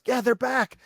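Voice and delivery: put-on high, light girl's voice echoing dad; young skater repeating her father; daughter's reply. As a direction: imitate the little daughter agreeing. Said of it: "And she goes".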